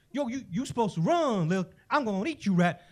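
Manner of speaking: faltering, puzzled threat; confused cat. Acted. Cat to the rat that turned on it, mildly confused. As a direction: restart the threat, thrown off and unsure. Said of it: "the cat's very confused".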